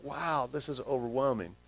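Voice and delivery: hushed, imitated awe; overwhelmed. Preacher voicing Joseph overwhelmed at seeing his brothers, hushed. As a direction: drop softly into overwhelmed wonder. Contrasting overwhelmed reaction to reunion.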